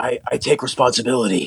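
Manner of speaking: extremely breathy, airy voice, lots of breath. Retelling Alec Baldwin's apology video: breathiest voice imitating Alec Baldwin. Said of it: "breathiest, like, you know, like, Aaron Paul".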